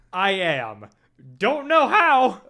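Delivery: slow, cracking upward on the words; voice breaking. Pretend. Joking voice with break.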